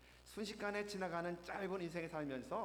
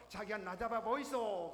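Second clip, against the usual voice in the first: louder blunt Gyeongsang-dialect tease; Gyeongsang girl; 4 semitones higher, 5 dB louder than usual. Retold or imitated. Gyeongsang girl teases her boyfriend, blunt dialect call. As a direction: call it out bluntly while running. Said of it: "냅다 뛰면서".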